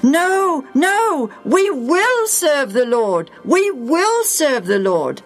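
high insistent cries of no; eager protest. Acted. The people protesting to Joshua, high and eager. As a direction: protest eagerly, then vow.

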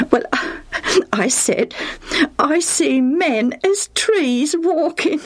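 amused telling broken by little laughs; chuckling. A narrator's reading. Lucius confesses his odd answer, chuckling. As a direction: hold back giggles, then say it high and slow. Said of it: "Lucius chuckled as he thought of it".

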